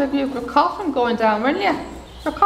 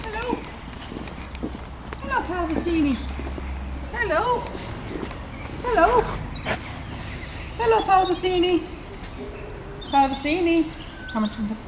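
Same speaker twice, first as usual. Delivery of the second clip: 1 calling a horse; 7 semitones higher, 4 dB quieter than usual. Real, not acted. Calling to Calvasini.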